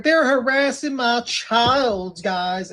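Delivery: high, slow whiny mimicry of a complaining mother; mocking imitation. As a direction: drag it out in a mocking whine. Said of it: "She's like".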